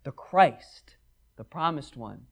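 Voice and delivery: slow, drawn-out explanatory aside; lightly voiced patient clarification; explaining gently. John explaining the Christ to a Greek reader, slow and patient. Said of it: "he's like".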